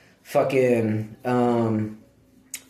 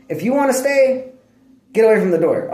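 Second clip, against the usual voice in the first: high mock order; 7 semitones higher than usual. Ordering dog away.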